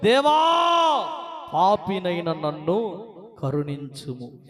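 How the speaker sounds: slow, pleading cry to God; a sinner's broken plea; humble plea. Acted. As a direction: beg for mercy with head bowed. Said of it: "ఆకాశం వైపు కన్నులెత్తుటకు ధైర్యము చాలక రొమ్ము కొట్టుకొనుచు".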